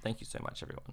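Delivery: hiccuping while talking; talking through hiccups. Real, not acted. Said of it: "Sorry, I have the hiccups now".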